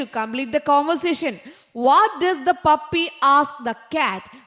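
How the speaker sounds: each word drawn out very slowly; slow dictation. Shown as a demonstration. Teacher reading the quiz sentence to her class, very slow. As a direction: spell it out slowly for young pupils. Teacher reads the task aloud.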